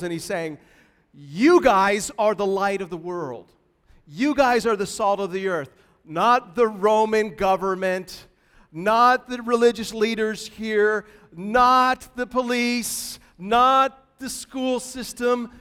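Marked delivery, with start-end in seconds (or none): 1.1-5.7 emphatic declaration. Acted. Jesus voiced to his disciples. 6.0-15.5 emphatic list. Acted. Listing who is not meant.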